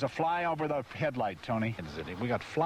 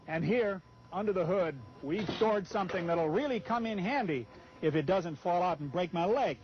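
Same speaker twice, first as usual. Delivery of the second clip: upbeat pitchman read of the sales copy; 3 semitones higher than usual. Acted. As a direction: sell the feature like a commercial voice-over. Reads the RV ad copy.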